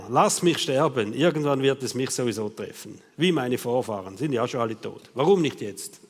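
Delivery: low, weary resignation; Elia. Acted. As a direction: give up with an understated groan. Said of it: "stöhnte er".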